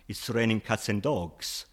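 It's raining cats and dogs said slowly; slow idiom demo. Shown as a demonstration. Teacher quotes the English idiom slowly for learners. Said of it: "phrases like".

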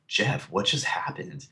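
slow, softened, dazed question; stunned. Retold or imitated. Passenger in the back seat asks his friend's dad, stunned. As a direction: act out being dumbfounded, spoken quietly and slowly. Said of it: "I'm just kind of stunned".

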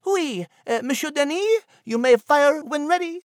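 a tiny chatty creature musing; Nigel the mouse. A narrator's reading.

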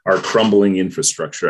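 put-on light Brooklyn accent, Bernie-style; a hint of Bernie's Brooklyn accent. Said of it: "in a Brooklyn accent like Bernie".

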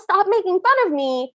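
retold indignant yell, held back; mild mock yell. Host retelling Cinderella pushing the prince, mild mock yell. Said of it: "She yells".

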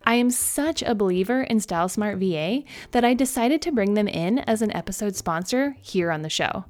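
upbeat sponsor ad read. Acted. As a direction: sell it like a podcast ad. Reads a sponsor ad.

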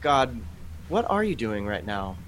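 calm, sincere question to God; open asking. Retold or imitated. Believer calmly asking God what he is doing, sincere. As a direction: ask gently, ready to listen. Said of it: "As opposed to saying".

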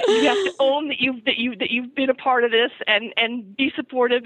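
half-laughing, half-crying self-scolding; words bubbling with a helpless laugh; laughing through words. Real, not acted. Mother laughing at her own self-scolding.

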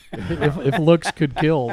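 slow words through laughter; laughing. Real, not acted. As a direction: laugh while saying it. Laughing at a photo.

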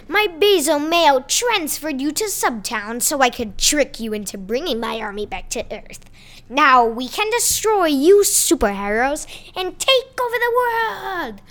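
evil chef. Acted. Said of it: "the evil chef".

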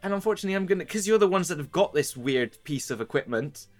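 a put-upon lady scolding her helpers; a lady laying out her troubles, half scolding; weary noble lady. Acted. The lady to the party, weary and scolding. GM holds lady NPC monologue.

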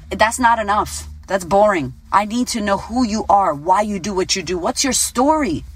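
usual speaking voice

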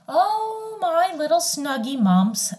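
put-on high, sugary old mother; doting mother voice. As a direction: coo it like a doting mom. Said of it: "she would announce".

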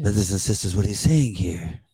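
put-on slow, drawn-out reading with a light accent; lightly accented, lulling impression of the reader; imitating a slow reader. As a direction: read it slowly like a sleepy Bible narrator. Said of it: "he reads it kinda like this".

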